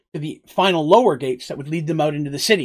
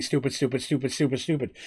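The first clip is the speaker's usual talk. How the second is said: heard from afar; 3 semitones lower, 8 dB quieter than usual. Acted. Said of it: "hear Petal coming down the hall".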